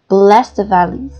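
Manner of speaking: one breath, hit bless; stress on bless. Shown as a demonstration. Teacher repeating the example, stress on bless. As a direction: BLESS stressed, the valleys blended after it. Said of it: "with a single breath".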